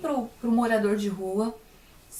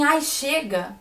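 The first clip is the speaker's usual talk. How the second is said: exasperated, sharp and a bit louder "Ai, chega!"; fed-up outburst; 3 semitones higher, 3 dB louder, slower than usual. Retold or imitated. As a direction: snap it shut like swatting a fly. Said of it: "Quando eu fiz assim".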